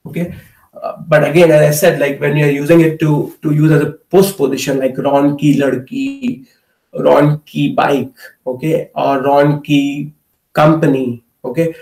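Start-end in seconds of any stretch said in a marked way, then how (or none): 4.8-10.1 slow, each ki said with a long E; teacher modelling ki, stretching the E; stressed ki. Shown as a demonstration. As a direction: lean on the E of ki every time. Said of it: "more emphasis on the E sound".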